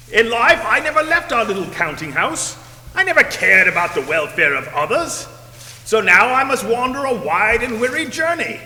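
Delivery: raspy ghost voice. Acted. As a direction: warn him like a doomed spirit. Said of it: "this raspy voice".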